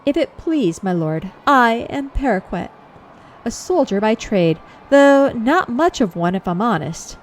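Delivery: lightly voiced folksy man-at-arms; a hint of rustic soldier; obliging common soldier. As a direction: offer gossip like a helpful foot soldier.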